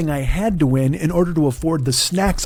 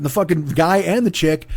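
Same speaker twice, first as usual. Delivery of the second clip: ordinary talk, nothing marked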